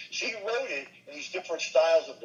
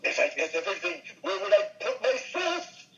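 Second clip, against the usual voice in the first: Phil Silvers; 7 semitones higher than usual. Acted. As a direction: stretch it out, pitched up, like an old-time comic. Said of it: "Phil Silvers might say".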